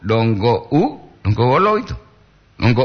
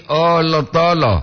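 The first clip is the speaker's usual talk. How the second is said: "oh, lo tolo" slow and raised, falling at the end; intonation demo; 4 semitones higher, slower than usual. Shown as a demonstration. Host showing listeners the intonation of a phrase, slow demonstration. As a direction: draw out "oh, lo tolo" at a raised pitch. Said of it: "Po dungah intonasi".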